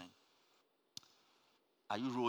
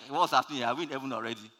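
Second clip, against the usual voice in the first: mock bewilderment; 2 semitones higher, 6 dB louder, faster than usual. Passenger seeing the leader on the wing, mock bewildered. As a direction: play the confused passenger. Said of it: "you're going to be like".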